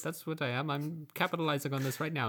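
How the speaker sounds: lightly squeaky goblin voice; goblin bluffing. Retold or imitated. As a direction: goblin seizing the chance to join the harpers. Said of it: "goblin keeps claiming recruit".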